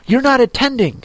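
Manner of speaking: high-pitched, sharp scolding; severe. A narrator's reading. The mouse scolds Alice for not attending, severely. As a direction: tell off an inattentive listener. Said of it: "said the mouse to Alice severely".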